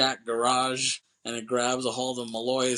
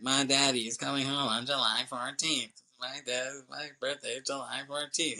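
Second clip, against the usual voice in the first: the speaker, mocking; 4 dB quieter than usual. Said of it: "you hear the speaker mocking"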